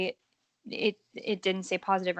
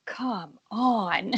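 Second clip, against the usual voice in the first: long, stretched-out mock holler at talking volume; imitated yell. Podcaster describes memes of Bellinger yelling, imitated yell. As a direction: stretch both words like a half-voiced yell. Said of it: "of him yelling".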